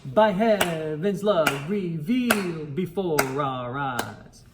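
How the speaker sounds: "revealed" stretched a little longer; held "revealed". Shown as a demonstration. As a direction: hold out "revealed" just a bit. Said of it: "That veiled holds out just a little bit longer".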